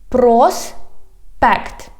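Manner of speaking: "Проспект" slow, broken in two syllables. Shown as a demonstration. Teacher teaching street words, "Проспект" slowly by syllables. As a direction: stretch "Проспект", pause between the two syllables. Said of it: "divide it into syllables".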